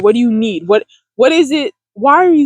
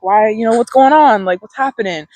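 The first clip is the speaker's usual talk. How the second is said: compassionate self-talk; 2 semitones lower than usual. Shown as a demonstration. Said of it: "with love and compassion and just be like".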